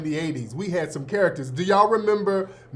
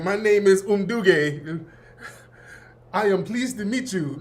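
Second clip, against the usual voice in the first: mock African accent. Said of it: "the little old corduroy exchange student".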